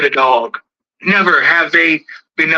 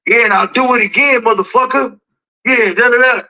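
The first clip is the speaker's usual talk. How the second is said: higher-pitched mock defiance; taunt from afar; 6 semitones higher than usual. Shoe-stepper talking big once far away, mock defiant. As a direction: act out big talk from a safe distance. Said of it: "he gets far away and goes".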